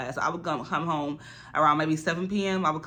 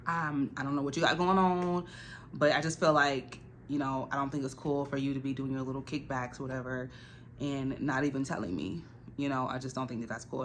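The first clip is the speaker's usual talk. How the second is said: softer, measured talking-to; softer voice, confronting the roommate calmly; calm quiet confrontation; 2 semitones lower, 6 dB quieter than usual. Retold or imitated. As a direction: set the boundary gently but firmly. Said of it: "And I was just like".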